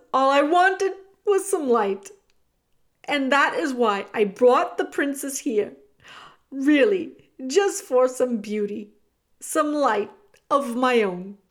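despairing villain confessing; anguished rat. A narrator's reading. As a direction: lament a longing for light. Weeping rat pleads.

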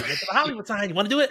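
lightly hyped-up creator imitation; mildly peppy mock influencer pitch; entertaining TikToker. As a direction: pitch it like an entertaining video host, slightly lifted. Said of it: "the real entertaining one".

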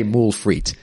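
"moule frite" as "mool freet" with an English R; "moule frite" in an easy anglicised French; rough French pronunciation. Shown as a demonstration. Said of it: "you won't make the effort to say the French R".

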